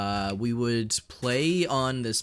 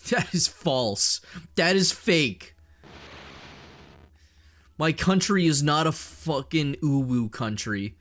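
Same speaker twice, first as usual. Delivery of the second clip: mock indignant; 3 semitones higher than usual.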